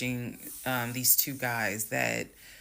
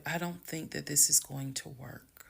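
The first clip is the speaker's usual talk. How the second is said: gentle, half-whispered verdict; calm. Retold or imitated. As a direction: break it to him evenly, without heat. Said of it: "exactly how I was talking".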